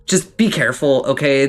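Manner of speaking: friendly dwarf giving a firm warning; a touch of a dwarf lecturing a visitor. Acted. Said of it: "he's like".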